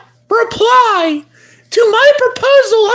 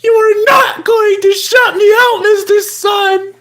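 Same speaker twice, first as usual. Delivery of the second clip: hammed-up crying yell; over-the-top sobbing demand; mock tearful shout. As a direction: shout it like a heartbroken fool. Jilted plea to the sun.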